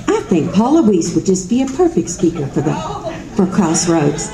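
lightly voiced Carla, laughing through it; a light take on Carla recommending a speaker; a hint of Carla, half laughing; Carla imitation. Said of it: "That's my best Carla imitation".

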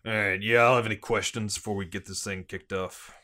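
put-on police chief briefing in a Boston accent; gruff-cop Bostonian, dropped R's. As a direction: lay out the case in Boston cop talk. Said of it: "Excellent Bostonian accent".

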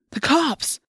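high-pitched cry of alarm. A narrator's reading. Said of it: "Tobias cried".

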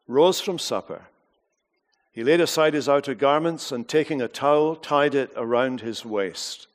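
measured, earnest Bible reading to the congregation; scripture reading. Acted. Preacher reads John to the congregation, measured and earnest.

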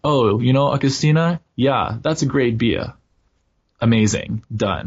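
put-on light German accent, casual. Host quoting Berlin friends in a light German accent. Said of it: "did you just put on a German accent".

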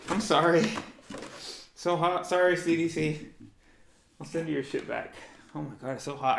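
panting, out of breath from the mask; catching breath after the mask. Real, not acted. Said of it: "I was losing my breath there".

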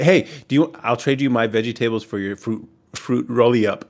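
"vegetables" said as veggie-tables; mock schoolkid trade with "vegetables" as veggie-tables; mock mispronunciation. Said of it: "go around school saying that".

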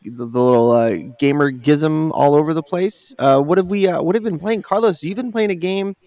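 news report voice. Acted. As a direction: announce it like a TV news anchor. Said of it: "Why, why did I sound like a news, news report?".

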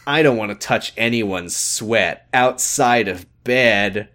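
slow, mock-sinister villain voice; lightly voiced evil schemer, drawn out; a hint of a cartoon villain purring. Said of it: "in, in evil voice".

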